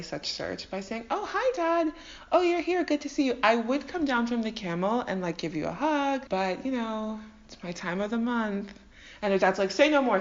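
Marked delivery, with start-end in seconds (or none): 1.1-8.7 innocent daughter act. Acted. Rachel stalling her dad from the camel, innocent act. 9.7-10.2 hasty cut-in. Acted. Dad cuts her off, squeamish.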